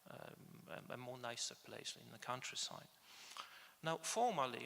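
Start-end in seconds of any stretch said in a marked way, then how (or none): 3.8-4.7 "formally" hit louder, with a pitch lift; stress on formally. Real, not acted. Lecturer qualifying Williams's church membership, stress on "formally". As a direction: lean firmly on the word "formally". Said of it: "I would like to stress the word formally".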